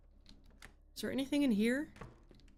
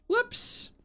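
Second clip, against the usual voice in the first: mock oops; 14 semitones higher than usual. After breaking the jug.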